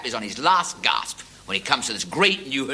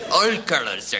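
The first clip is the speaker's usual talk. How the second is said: put-on Pakistani accent; 4 semitones higher, 4 dB louder than usual. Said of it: "speaks with a Pakistani accent".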